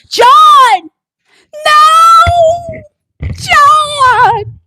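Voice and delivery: high frantic screams of a woman being hit; panicked screaming. Retold or imitated. Woman screaming at her partner in panic. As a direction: scream his name in terror.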